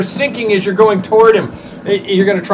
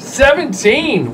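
higher, drawn-out exclamation of the roll; amazed echo; 5 semitones higher, much slower than usual. Real, not acted. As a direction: stretch it out in astonishment. Game master echoes a high roll.

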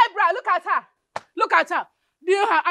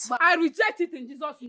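crying out a prayer; tearful rejection; 4 semitones lower than usual. Acted. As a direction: reject it with a sob in the voice. Mother rejects the marriage.

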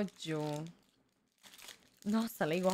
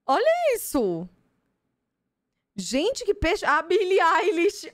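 much higher, louder, stretched shrieks; thrilled squeal; 8 semitones higher, 6 dB louder, slower than usual. Real, not acted. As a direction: scream with delight at the card. Gushing over a card.

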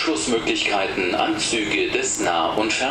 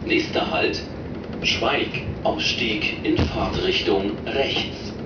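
over the intercom. Real, not acted. Recorded train stop announcements.

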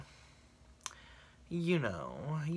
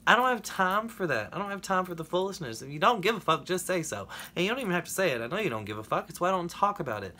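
heated rant; 5 semitones higher, 5 dB louder, faster than usual. Real, not acted. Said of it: "That was a bit of a rant".

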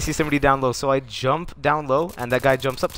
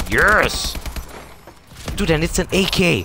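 loud burst of joy; real triumphant shout; excited yes; 3 semitones higher, 3 dB louder than usual. Real, not acted. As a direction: cheer at the loot. Got a dropped gun.

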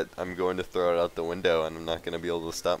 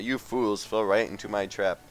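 mustache twirling villain; 2 semitones higher, 3 dB louder than usual. Acted. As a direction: sneer it like a cartoon villain. Reading villain dialogue in game.

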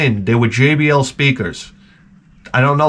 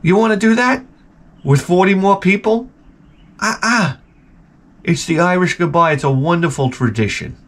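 mock exchange; 6 semitones higher than usual. Dialogue with guests.

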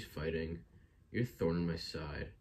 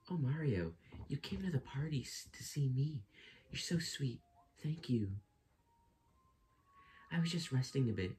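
Peach voice; 4 semitones higher than usual. Acted. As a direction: sweetly invite Mario, pitched high and gentle. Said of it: "I have to do Peach voice".

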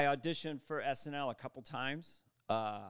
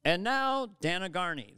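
emcee introduction; 3 semitones higher, 5 dB louder than usual. Retold or imitated. Acts emcee botching his introduction.

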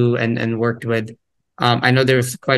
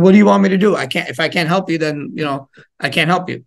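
exasperated parent; much faster than usual. Retold or imitated. Parent fed up with child who refuses help, exasperated. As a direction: throw up your hands at the kid.

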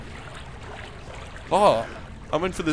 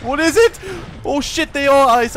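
high, loud frightened exclamation; frightened cry; 9 semitones higher, 7 dB louder than usual. Real, not acted. Player sees glowing eyes, cries out in fright. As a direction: blurt it out in real fear.

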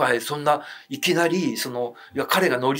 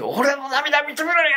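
much higher, slow shout as the possessed mother; possessed mother at the wake repeats it, high and slow; dead son's voice; 12 semitones higher, slower than usual. Retold or imitated. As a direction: call out slowly as if the dead son speaks through her. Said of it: "男の声で".

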